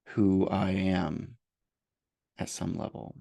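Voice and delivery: slow, halting self-judgment statements; guided meditation. Acted. Therapist voicing self-judgments for listeners to repeat, slow guided meditation. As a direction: let each phrase sit, pausing mid-sentence.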